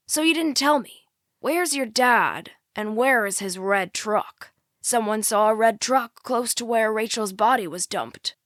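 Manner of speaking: corner her with each question; pressing sheriff. Acted. Sheriff grills the girl about her dad's truck, pressing.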